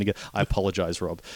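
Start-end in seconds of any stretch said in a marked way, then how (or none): 0.0-0.2 lightly put-on American accent; a bad stab at a folksy American speech; half-hearted American accent mocking a sappy speech; terrible American accent. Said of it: "It's a terrible accent I'm doing".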